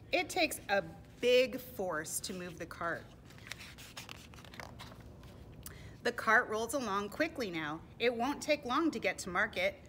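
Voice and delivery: clear, emphatic read-aloud; projected picture-book reading; storybook narration. A narrator's reading. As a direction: tell it to little listeners with big emphasis. Reads storybook to children.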